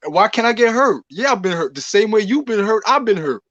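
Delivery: heated protest. Real, not acted. Arguing a point heatedly.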